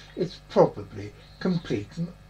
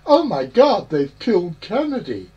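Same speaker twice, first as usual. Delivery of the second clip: louder South Park shout; South Park quote; 3 semitones higher, 7 dB louder than usual. Retold or imitated. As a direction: blurt it like the cartoon line. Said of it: "I tried to get him to call it".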